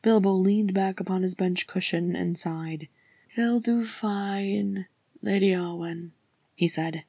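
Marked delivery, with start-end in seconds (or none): 3.3-6.1 put-on slow, a touch of an old man's waver; old hobbit voice, slow and unsteady; cracked wavering old voice. Bilbo reassuring Arwen, slow old waver. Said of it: "his cracked voice wavering".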